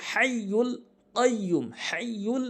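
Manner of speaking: হাইয়ুল কয়্যুম with the doubled ya held; correct pronunciation. Shown as a demonstration. Teacher giving the correct form after the wrong one. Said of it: "সঠিক উচ্চারণ".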